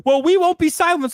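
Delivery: mocking. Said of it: "you're screaming about".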